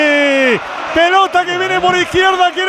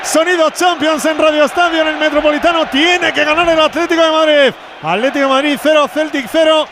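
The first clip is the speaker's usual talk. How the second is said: live radio football commentary; play-by-play; 3 semitones higher than usual. Acted. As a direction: call the match live, punchy.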